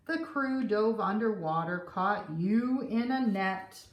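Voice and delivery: put-on lively read-aloud for kids; gentle storytime narration; storybook reading. A narrator's reading. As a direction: read it like a picture book at story time. Reading the picture book aloud.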